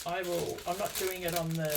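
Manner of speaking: talking while crunching; crunchy mouthful; crunching chips. Real, not acted. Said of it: "sorry about the crunching".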